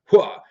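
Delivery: short, loud "hua!"; punchy exclamation imitating a startling critter; imitated scorpion lunge. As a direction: burst out a sudden mock pounce noise. Imitates scorpion bursting out at wife.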